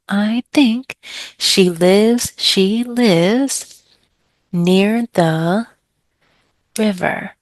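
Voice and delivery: each word hit on a clap with a sing-song rise; teacher clapping out the rhythm with a student; rhythmic, clapped beats. Shown as a demonstration. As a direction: chant it to a steady clapping beat. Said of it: "clap with them".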